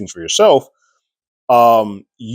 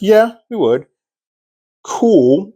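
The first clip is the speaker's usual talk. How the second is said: higher, bright-eyed eager yes man; eager Joined voice; 12 semitones higher, 5 dB louder, much slower than usual. Retold or imitated. The Joined gladly agreeing to Carol, high and eager. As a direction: chirp it like a people-pleaser.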